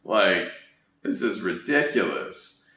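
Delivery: mock annoyed disbelief. Shown as a demonstration. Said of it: "He might just write back".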